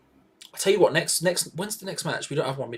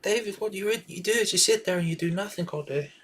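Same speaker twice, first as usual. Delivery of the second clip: nagging wife; 5 semitones higher than usual. Retold or imitated. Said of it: "his wife".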